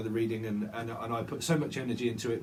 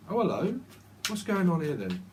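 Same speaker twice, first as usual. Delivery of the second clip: British bobby; 4 semitones higher than usual. Retold or imitated. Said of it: "the old Bill used to say that in Britain".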